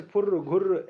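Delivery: फुर्र, घुर्र with the final r rolled on; pluta sound example. Shown as a demonstration. Teacher giving examples of pluta, फुर्र, घुर्र with trailing r. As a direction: let the r run on in फुर्र, घुर्र. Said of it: "ये होता है प्लुत स्वर".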